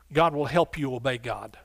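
ordinary talk, nothing marked

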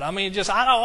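ordinary talk

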